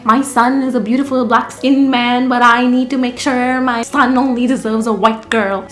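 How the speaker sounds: mock Indian mother accent; put-on Indian accent. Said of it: "why I'm talking in that accent".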